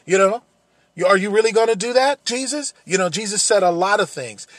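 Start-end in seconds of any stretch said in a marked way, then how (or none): 0.0-2.7 scornful, louder jeering voice, pitched up; mocking taunt. The mocking crowd jeering at Jesus on the cross, scornful and loud. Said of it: "throwing these things back in his face with such disrespect".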